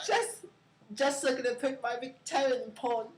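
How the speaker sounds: attempted Australian accent, reading aloud; lightly put-on Australian accent. Shown as a demonstration. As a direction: read it like an Australian. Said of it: "Read in Australian".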